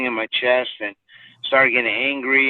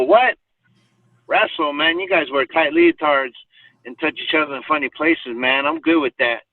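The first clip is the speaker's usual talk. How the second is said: mocking disbelief; 5 semitones higher than usual. Teasing reply about wrestling.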